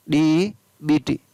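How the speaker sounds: डीईबीटी spelled out slowly, letter by letter; slow deliberate spelling of डीईबीटी. Shown as a demonstration. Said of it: "ऐसा नहीं कि डीईटी बोले आप डेट में".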